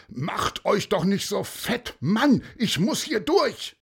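irritated, high, loud call; impatient rider yelling at walkers; shouting cyclist. Acted. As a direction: demand room to get through. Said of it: "klingelte wie verrückt und rief".

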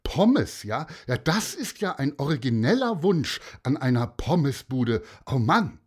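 snippy saleswoman; mock the obvious order; tart, exasperated jibe at a customer; pointed sarcasm. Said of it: "sagte die spitz".

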